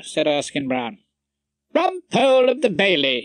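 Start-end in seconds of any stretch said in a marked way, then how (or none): 1.7-3.2 much higher, chiming voice; wife chiming in. A narrator's reading. Wife joining the greeting to Rumpole, chiming in. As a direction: join the welcome in a high voice. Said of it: "his wife chimed in".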